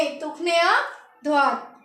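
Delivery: तुखने आध्वात said slowly as French, tukhne adhvat; French tourne à droite. Shown as a demonstration. Teacher models French for turn right, slow and clear. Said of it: "turn right को हम बोलेंगे आध्वात".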